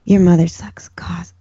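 hushed, breathy demon line; whispered demon voice. Pretend. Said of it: "I should try that".

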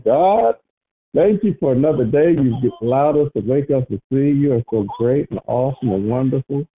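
steady earnest prayer voice. Acted. Leading the prayer line in thanks, earnestly. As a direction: lead them in prayer, sincere.

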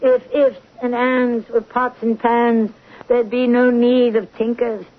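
slow, stagey recital of a line; reciting Saint Joan. Acted. Patient quoting her old stage line, slowly declaimed. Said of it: "that's from Saint Joan".

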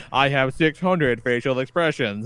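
a hint of machine recital; lightly voiced robot. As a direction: quote a robot reciting its feature. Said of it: "that's when he's like".

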